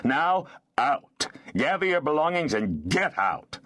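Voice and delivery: lightly voiced stern lord building to a command.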